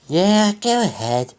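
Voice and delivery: slow weary reply; tired voice. Acted. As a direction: drag it out, worn out. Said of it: "in a tired voice".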